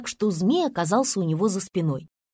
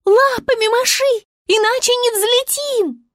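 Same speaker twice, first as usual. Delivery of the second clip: высоко и громко, подгоняет; звёздочка командует; советовала Звезда; 12 semitones higher, 5 dB louder than usual. A narrator's reading. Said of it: "советовала звезда". (Звезда подгоняет Медвежика, громко)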